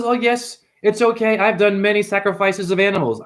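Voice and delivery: imitated priest with an Indian accent; mock Indian accent. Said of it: "they have the very good accent".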